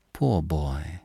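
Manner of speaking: a gentle hush of pity; tender. A narrator's reading. Madame consoling André Louis over his suffering, softly tender. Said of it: "she said tenderly".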